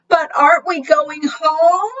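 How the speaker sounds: high, small questioning voice; little Pip asking. A narrator's reading. Pip asking her parents about going home, high and small. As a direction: ask like a sleepy little chick. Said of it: "asked Pip".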